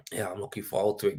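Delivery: quick unvoiced whisper; hushed aside to the viewers. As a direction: breathe it out as a whisper, no voice. Repeating the same line, whispered.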